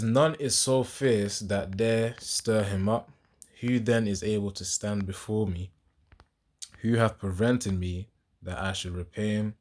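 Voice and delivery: deliberate verse reading, firm at the start and settling; scripture reading. Acted. Preacher reads the next verses to listeners, deliberate scripture reading. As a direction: read it out phrase by phrase with weight.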